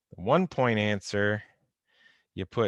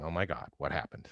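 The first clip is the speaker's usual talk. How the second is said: mock panic; 7 semitones lower, 8 dB quieter, faster than usual. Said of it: "You're saying".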